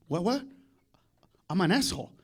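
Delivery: low, soft mock disbelief; quiet comeback. Dad answering mom's insult, low quiet disbelief. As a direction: drop it low and controlled. Dad coolly turning argument on mom.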